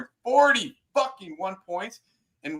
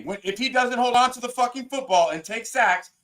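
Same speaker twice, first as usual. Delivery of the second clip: raised, higher voice in heated argument; heated yelling; 6 semitones higher than usual. Real, not acted. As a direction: shout him down in the debate. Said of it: "Can I talk in a normal voice".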